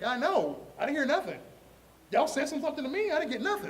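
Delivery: high-pitched comic indignation; whiny acted-out complaint; mock protest.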